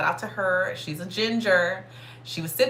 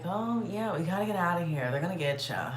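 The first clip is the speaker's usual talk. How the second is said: nonchalant. Retold or imitated. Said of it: "she was just so nonchalant".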